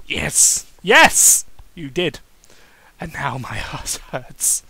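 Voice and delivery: a hint of a whining little child; childish whine. Daniel complaining to Kane about his sore rear, mild childish whine. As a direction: whine like a sulky kid. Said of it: "complained and whined like a little child".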